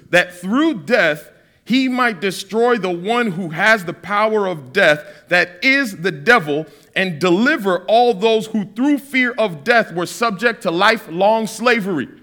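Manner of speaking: slow, weighty reading of scripture; measured scripture reading. Acted. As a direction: read the verse slowly and solemnly. Reads scripture slowly.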